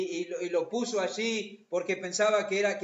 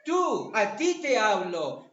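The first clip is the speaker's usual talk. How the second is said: slow, louder "Tú, a ti te hablo" with "Tú" hit hard; "Tú" punched, "a ti te hablo" drawn out; stress on tú; 4 dB louder, slower than usual. Shown as a demonstration. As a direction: point the word "Tú" straight at the listener. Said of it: "y enfatiza utilizando esa palabra".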